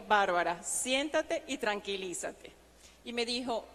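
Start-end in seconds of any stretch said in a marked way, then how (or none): 0.1-2.5 calm boss. Retold or imitated. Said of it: "con una risa me dijo".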